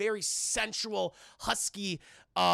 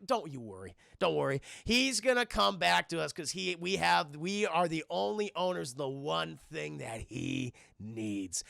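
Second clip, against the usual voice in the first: lightly voiced boss, low on the opening words, slowing to the end; reassuring crime boss; 3 semitones lower than usual. Crime boss calms a worried henchman, unhurried reassurance. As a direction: soothe the henchman, drawing out the last phrase.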